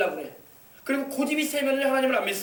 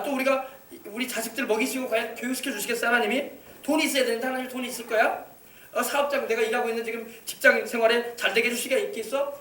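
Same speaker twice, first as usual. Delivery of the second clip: softer, skeptical questioning, imitating a doubter; mock doubting; 5 dB quieter than usual. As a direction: voice the doubter's questions under the preaching volume. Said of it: "자꾸 의심을 하는 거야".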